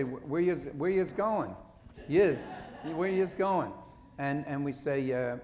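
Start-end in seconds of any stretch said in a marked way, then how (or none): 0.0-3.7 Philly accent. Shown as a demonstration. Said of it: "I like to say".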